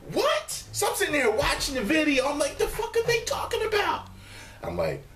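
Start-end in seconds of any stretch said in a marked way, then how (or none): 0.1-0.5 sharp high what; shocked disbelief; squeaky mock surprise; baffled. Baffled reaction. 2.6-4.1 high, baffled outburst; pitched-up confusion. Retold or imitated. Baffled retort, repeated.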